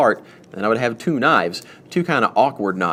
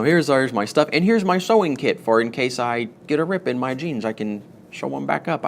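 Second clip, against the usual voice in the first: innocent excuse voice; 3 semitones higher than usual. Pretend. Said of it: "I don't know why I'm talking in this voice".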